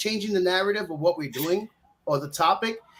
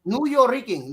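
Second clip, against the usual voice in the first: Spanish accent; 4 semitones higher than usual. Shown as a demonstration. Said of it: "try to say it Scarface".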